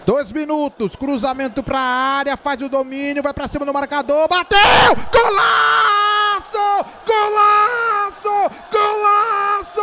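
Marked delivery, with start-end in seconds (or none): 3.2-4.6 rising excited call. Real, not acted. Shot builds to goal. 5.1-9.8 long drawn-out shouted goal call; explosive goal commentary. Real, not acted.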